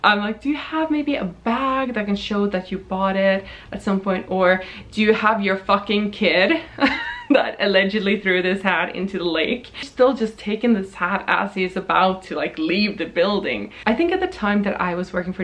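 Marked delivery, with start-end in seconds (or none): 0.4-9.7 super polite. Retold or imitated. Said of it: "I'm being super polite the whole time".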